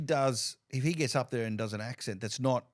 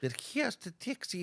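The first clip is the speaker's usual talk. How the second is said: slow, higher Greek accent attempt; 5 semitones higher, slower than usual. Shown as a demonstration. Host asks guest for Greek and tries it, Greek accent. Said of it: "Can you do the Greek accent?".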